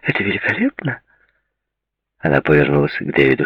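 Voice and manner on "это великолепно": exclaimed delight. A narrator's reading. Woman congratulating her engaged friend, exclaiming. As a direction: exclaim with a lift in pitch. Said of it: "воскликнула Клаудия".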